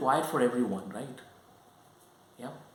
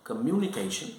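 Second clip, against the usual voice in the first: communication in the other accent, at ordinary pitch; "Communication" in a second accent, level and unraised. Shown as a demonstration. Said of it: "the other accent".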